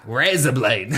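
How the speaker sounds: low mock Australian; Australian accent, a touch hammed up. Shown as a demonstration. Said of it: "razor blades in an Australian accent".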